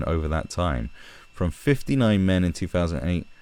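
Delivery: measured, even read from a news article; article read aloud. A narrator's reading. Reading chart statistics from an article, read-aloud voice.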